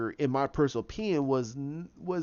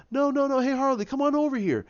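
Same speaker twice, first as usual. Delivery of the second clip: mock Joker call; 11 semitones higher than usual. Retelling Joker calling Harley over, high playful mock call. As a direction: put on a sing-song villain calling his girl over.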